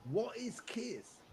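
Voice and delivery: slow, baffled mock query; puzzled question. UK schoolkids asking about his band patch, baffled. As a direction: play a confused schoolkid asking.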